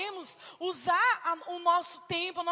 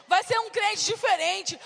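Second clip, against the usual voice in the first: preaching shout; 2 semitones higher, 4 dB louder than usual. Shown as a demonstration.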